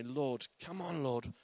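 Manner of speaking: plead, then cry out; crying out to God. Acted. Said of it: "humble ourselves and say".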